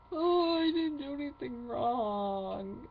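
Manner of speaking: slow, put-on innocent whine; a mocking take on the sister's denial; mocking whiny sister. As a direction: play up her fake innocence.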